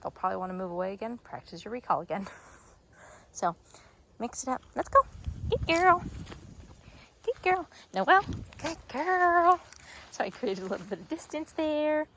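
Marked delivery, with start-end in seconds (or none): 4.7-9.6 high, loud praise; high excited praise to the dog. Real, not acted. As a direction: cheer the puppy on. Praising and calling puppy.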